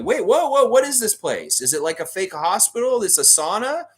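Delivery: high, startled burst of questions; acted alarm. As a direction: blurt it out high and loud, taken aback. Acts the alarmed Raptor questioning.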